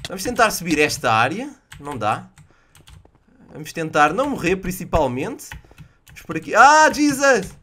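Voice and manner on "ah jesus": high, loud, drawn-out yelp; slow, stretched shocked exclamation; startled outcry. Real, not acted. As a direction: jump out of your skin. Startled by an enemy.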